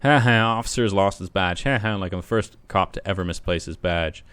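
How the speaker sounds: sarcastic laugh. Acted. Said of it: "And laughs sarcastically".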